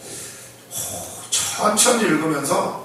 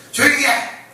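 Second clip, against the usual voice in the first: higher, louder snapping rebuke; scolding hush; 7 semitones higher, 4 dB louder than usual. Retold or imitated. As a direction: shut them up sharply. Crowd scolds the blind men.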